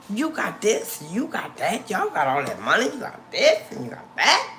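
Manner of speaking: rising, animated acted protest; acted incredulous listing. Acts out questioning the jealous people.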